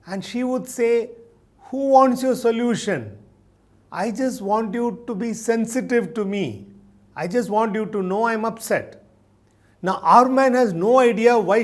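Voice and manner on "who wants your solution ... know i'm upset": higher-pitched, mildly indignant reply; lightly acted wife, hurt and protesting; upset wife. Upset wife answers her problem-solving husband, mildly indignant.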